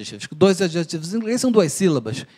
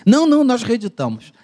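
quick, higher and louder insistence; eager publisher reply; 7 semitones higher, 5 dB louder than usual. Retold or imitated. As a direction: jump in eagerly to claim the book. Editora responde ao telefone. (editora insistindo, mais aguda e mais alta)

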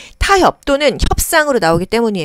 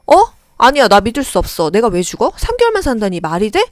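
patient in denial; 3 semitones higher than usual. Acted. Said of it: "이런 부정의 마음이 듭니다".

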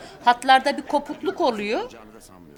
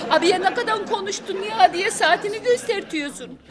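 whiny mock complaint; 3 semitones higher than usual. Wife mocking husband's complaints, crying laugh.

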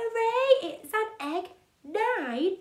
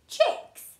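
surprised; 11 semitones higher, 3 dB louder than usual. Acted. Surprise at chicks.

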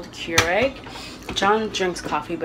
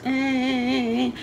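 imitated whine; 5 semitones higher than usual. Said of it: "but it's like a whine".

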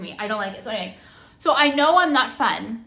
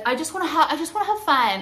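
lightly mocking, slightly raised voice; imitated fun-seeker; 4 semitones higher, faster than usual. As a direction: mildly mimic someone wanting fun. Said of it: "if someone, like, says".

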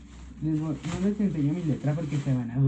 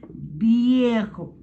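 playful exclaim; 8 semitones higher, 8 dB louder than usual. Acted. Teasing call over old clothes.

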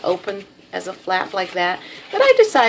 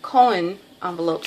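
Texas drawl. Real, not acted. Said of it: "that's my Texas drawl coming out".

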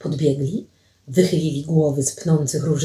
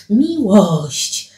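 fuller, drawn-out exclamation; exclaimed repeat. Acted. Alicja repeats it to Paweł, exclaiming. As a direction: lift the word out and let it fall.

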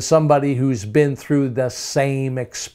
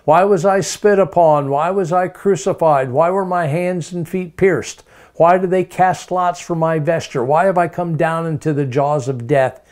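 high, pleading questions in mock confusion; mock bewildered Jesus; 4 semitones higher than usual. Preacher voicing a wrongly confused Jesus, high mock bewilderment. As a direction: play it as if he had no idea why. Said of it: "That would be so unscriptural to say".

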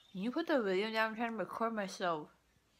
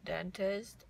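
numb from anesthesia; talking with a numb mouth. Real, not acted. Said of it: "My face feels really numb".

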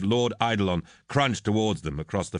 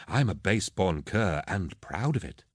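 easy, unbothered boast; proud retort. Acted. Captain owning the lord's insult, proudly unbothered. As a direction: throw the insult back with pride.

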